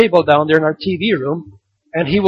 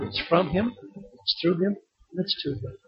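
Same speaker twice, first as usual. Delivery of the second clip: soft, fading devotion; hushed words about God; reverent hush; 13 dB quieter than usual. Acted. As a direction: let each phrase grow softer. Reverent build-down.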